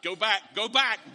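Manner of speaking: calling out a warning. Retold or imitated. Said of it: "or is going".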